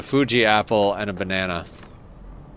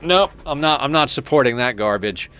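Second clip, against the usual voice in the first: dismissive refusal; 4 semitones higher, 4 dB louder than usual. Retold or imitated. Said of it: "I was like".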